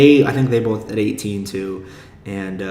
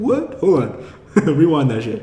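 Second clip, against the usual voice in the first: a sharp, much higher What, then Hold on; mock shock; 4 semitones higher than usual. An imagined podcast listener doing a mock double take at the news. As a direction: play a listener who can't believe it.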